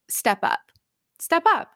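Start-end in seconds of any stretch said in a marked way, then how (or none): 1.2-1.7 a retold dare barked at Colin; mock yell. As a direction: throw the challenge up, half-yelled. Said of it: "she screams at Colin".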